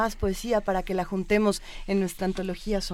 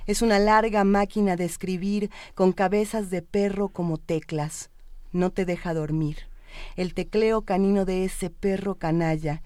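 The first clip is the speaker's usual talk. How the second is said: poetry reading. Acted. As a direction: read the poem with weight. Reads poems aloud.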